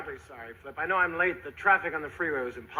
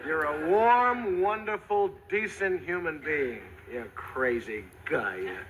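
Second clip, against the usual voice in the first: mock-sincere tribute; 3 semitones lower, much slower than usual.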